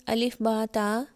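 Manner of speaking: अलिफ, बा, ता in Arabic style, "baa, taa"; Arabic letter names. Shown as a demonstration. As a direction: say अलिफ, बा, ता with long open "aa" endings. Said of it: "इस तरह बोला जाता है".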